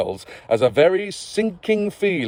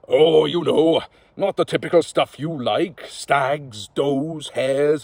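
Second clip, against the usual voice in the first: lightly voiced sly host; slower than usual. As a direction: offer a job like a wily underworld lord. Host explains the hunt.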